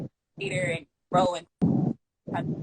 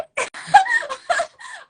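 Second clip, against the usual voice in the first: loud high laugh; 8 dB louder than usual. Real, not acted. Laughs after imitating friend.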